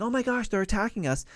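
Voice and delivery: mock panicked yell. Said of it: "he came out yelling".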